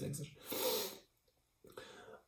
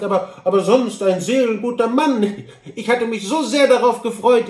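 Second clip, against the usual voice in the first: high, louder, fussy lament; saddened Kantor; 6 semitones higher, 7 dB louder than usual. Acted. Kantor mourns losing his new acquaintance, earnest and distressed. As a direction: regret the loss with earnest emphasis.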